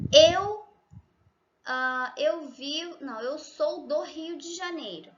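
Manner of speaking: frase en portugués de Brasil, con acento carioca; Portuguese pronunciation. Shown as a demonstration. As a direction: pronuncia "eu sou do Rio de Janeiro" a la brasileña. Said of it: "Decimos en portugués". (portugués brasileño nativo)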